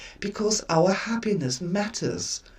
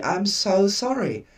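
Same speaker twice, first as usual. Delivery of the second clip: flat apology. Retold or imitated. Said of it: "Not with much feeling in it".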